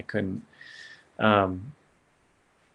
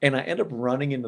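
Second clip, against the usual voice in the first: laughing while telling; 7 semitones higher than usual. Real, not acted. Retelling his dash down the hall.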